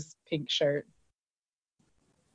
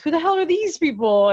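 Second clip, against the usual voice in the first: much higher, louder angry question; hammed-up angry boss; mock outrage; 10 semitones higher, 4 dB louder than usual. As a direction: imitate the boss losing it. Voicing Saunders' angry outburst.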